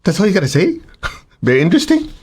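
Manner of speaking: mock "Very interesting" with a rising, laughing disbelief; incredulous laughing echo. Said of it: "I'm going".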